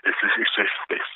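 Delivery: soft soothing hypnotist voice; near-whispered lulling words. Pretend. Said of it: "I heard this hypnotist".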